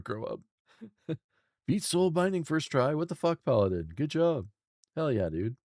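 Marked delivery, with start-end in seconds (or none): 1.7-5.6 loud, high-pitched hyped praise; excited congratulations. Real, not acted. Streamer hypes Paladin for beating Soul Binding first try, excited congratulations. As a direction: cheer them on, loud and amazed.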